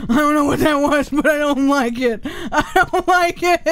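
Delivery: high, loud nervous panic; panicked. Real, not acted. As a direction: blurt it in fright. Panicked at sound.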